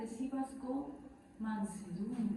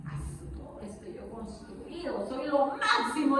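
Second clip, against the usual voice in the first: Nabucodonosor; 3 dB louder than usual. Acted. King admires what he built, lightly acted boasting. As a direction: play a hint of a self-admiring king. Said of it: "¿Se acuerdan de Nabucodonosor?".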